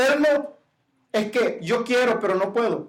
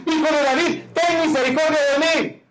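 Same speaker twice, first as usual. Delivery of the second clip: higher, effortful pleading call; straining cry for mercy; 6 semitones higher than usual. Retold or imitated. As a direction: cry out harder, above the crowd. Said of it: "volvían a gritar con aquel esfuerzo".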